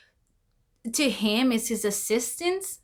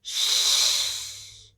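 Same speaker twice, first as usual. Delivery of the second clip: shush. Retold or imitated. He hushes her again.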